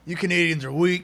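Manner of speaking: loud mocking trash talk; wrestler taunt. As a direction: jeer at them like a heel.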